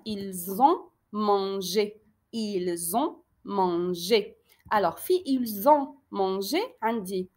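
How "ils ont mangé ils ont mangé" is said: very slow, word by word; slow dictation. Shown as a demonstration. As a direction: read it slowly for children. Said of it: "شوفوا هاد la phrase". (lecture très lente, mot par mot)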